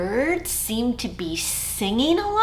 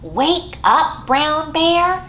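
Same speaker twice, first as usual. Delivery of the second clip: call out; 4 semitones higher, 3 dB louder than usual. Shown as a demonstration. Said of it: "will you help me call out".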